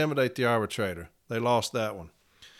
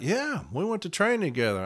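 mock insistent manager; 7 semitones higher than usual. Manager insists they trained together.

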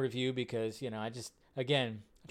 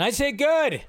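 emphatic cheer; 10 semitones higher, 7 dB louder, slower than usual. Real, not acted. Cheering on Rebel Moon hype.

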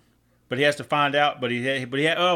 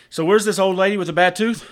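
put-on drunk punchline delivery; 6 semitones higher, 6 dB louder than usual. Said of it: "He goes".

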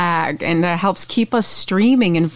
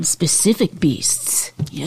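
whisper; 3 semitones lower, 4 dB quieter, slower than usual. Acted. Whispered joke aside.

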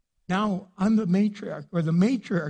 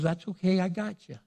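God reassuring; 3 semitones lower than usual. Acted. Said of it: "God goes".

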